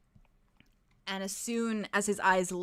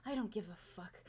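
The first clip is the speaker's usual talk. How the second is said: menacing whisper. Acted. Villain voiced, menacing whispered threat.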